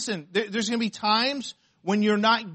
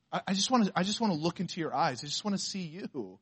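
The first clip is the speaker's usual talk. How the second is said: soft tender husband; 6 dB quieter, faster than usual. Retold or imitated. Husband voiced gazing at wife.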